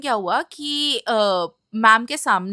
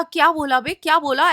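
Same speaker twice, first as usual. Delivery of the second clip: sharp retold yell, raised and louder; angry yell; 3 semitones higher, 3 dB louder than usual. Girl yelling back at a mocking classmate, angry yell. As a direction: yell back at the boy who mocked her. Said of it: "मैंने इतना तेज चिल्लाया".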